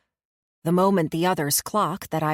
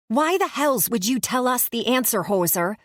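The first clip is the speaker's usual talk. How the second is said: put-on thick Canadian accent; 5 semitones higher than usual. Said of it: "her Canadian accent even thicker than usual".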